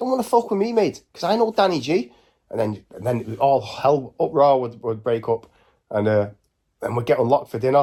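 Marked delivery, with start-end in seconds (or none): 0.0-2.1 very high, high-pitched put-on Scouse accent. Retelling winding up the manchester guys at the window, in a put-on scouse accent. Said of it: "So I just put on a Scouse accent".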